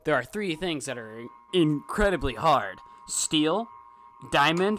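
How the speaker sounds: low, loud mock narrator; game quote voice. Retelling the Civ research quote, booming mock narrator. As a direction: boom it like a grand game quote. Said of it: "he says a quote".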